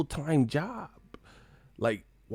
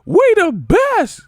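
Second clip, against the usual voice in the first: high, loud hype-man yell, stretched out; drawn-out mock DJ ad-lib yell; famous DJ's catchphrase shout; 11 dB louder, much slower than usual. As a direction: bellow it like a club hype man.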